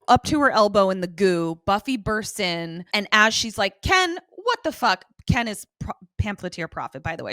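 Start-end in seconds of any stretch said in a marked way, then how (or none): 3.8-5.0 high-pitched incredulous outburst; much higher, exclaimed in mock outrage; mock indignant disbelief. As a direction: imitate bursting in, appalled. Acts Buffy bursting in on Ken.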